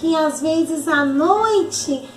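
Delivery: a hint of a timid child; lightly voiced child puppet. Arabella admits her night fears to auntie, timid child.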